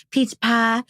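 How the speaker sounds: light Southern twang on "Peach pie."; Southern accent. Retold or imitated. Proud of her first peach pie video, a touch of a Southern accent. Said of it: "I don't know why I get an accent".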